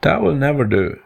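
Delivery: high-pitched, mildly howled objection; mock howl. Two animals dismiss elephant's idea, high mock howl. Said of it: "howled the other two together".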